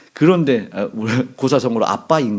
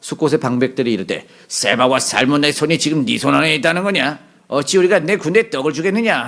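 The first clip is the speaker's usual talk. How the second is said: mildly mock-nasty challenge; mean taunt; 2 semitones higher than usual. Officials of Succoth refusing Gideon bread, mildly nasty taunt. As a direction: read it like a mean official sneering at a request. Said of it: "나쁘게 얘기해봐요".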